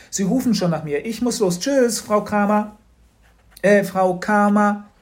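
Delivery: put-on boy nervously excusing himself from Frau Kramer; hasty escape. A narrator's reading. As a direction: stammer your way out and flee.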